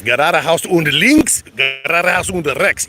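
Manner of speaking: slow, drawn-out German directions; reciting phrasebook German. Shown as a demonstration. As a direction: stretch out each German phrase, tune rising. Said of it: "That's all the German I know".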